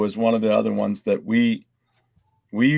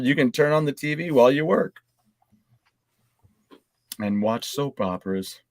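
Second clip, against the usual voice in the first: news read. Acted. Host reading a segment to the podcast: light news read.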